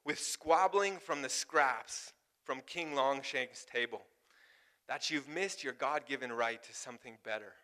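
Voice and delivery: a hint of a hero's rallying speech; reciting a movie speech. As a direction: quote the rousing movie line with weight. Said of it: "and he says".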